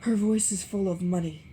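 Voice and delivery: Gatsby suddenly names it. A narrator's reading. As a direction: blurt it out suddenly. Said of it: "he said suddenly".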